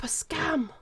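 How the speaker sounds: a flat whispered "scam" that drops at the end; whispered verdict. Real, not acted. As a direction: mutter "scam" under your breath, falling. Checking if something shows up.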